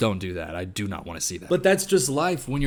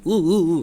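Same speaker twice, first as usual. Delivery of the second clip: mock dog "woo, woo"; imitated woo-woo howl; 4 dB louder than usual. Imitating the man in the collie suit, hooting woo. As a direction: hoot like a playful dog. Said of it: "He's sitting there going".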